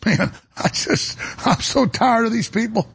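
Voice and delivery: strained, high-pitched exasperation; fed-up cry of frustration; exasperated. Real, not acted. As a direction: vent it high, fed up and worn out. Venting frustration at his opponents.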